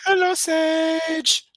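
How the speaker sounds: high, loud, slow delighted greeting; high excited voice. Real, not acted. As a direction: squeal a happy hello to a friend. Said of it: "I don't know why my voice got so high".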